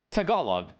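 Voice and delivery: "Tagalog" as tuh-GAH-log, falling; second-syllable stress. Shown as a demonstration. Streamer showing chat what was learned, "Tagalog" as tuh-GAH-log. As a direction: put the weight on GAH in "Tagalog". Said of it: "Now we got it".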